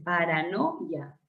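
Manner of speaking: "paranoia" slowly, softly split before the final ia; syllable demo. Shown as a demonstration. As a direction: draw out "paranoia" in pieces. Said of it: "Otro diptongo".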